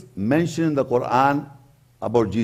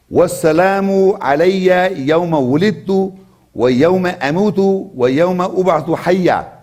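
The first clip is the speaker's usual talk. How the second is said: rapid, melodic Arabic chant; Quran recitation; much faster than usual. Acted. Preacher reciting Surah Maryam to congregation, chanted. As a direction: chant the verse quickly in one breath.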